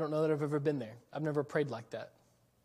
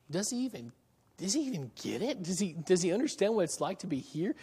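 doubting believer; 3 semitones higher than usual. Retold or imitated. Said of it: "you start thinking".

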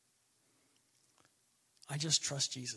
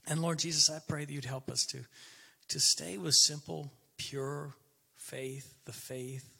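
closing prayer. Acted. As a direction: pray it sincerely for the flock.

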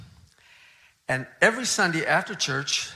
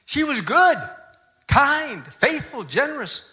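grieving praise; 9 semitones higher, 4 dB louder than usual. Retold or imitated. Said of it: "He was just furious with God".

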